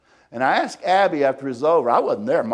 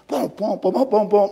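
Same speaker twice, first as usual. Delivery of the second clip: mock punching booms; 5 semitones higher, 4 dB louder than usual. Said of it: "She's doing a Rocky imitation".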